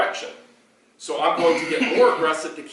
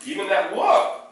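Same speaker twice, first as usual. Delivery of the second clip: higher, louder talk to the dog; redirecting dog; 10 semitones higher, 5 dB louder than usual. Shown as a demonstration. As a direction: pull her attention back. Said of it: "I'm redirecting".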